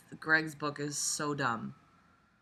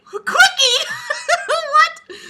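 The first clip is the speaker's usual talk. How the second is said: laughing; 14 dB louder, much slower than usual. Real, not acted. Cracking up at the name.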